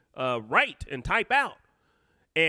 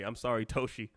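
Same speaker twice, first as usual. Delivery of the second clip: normal talking voice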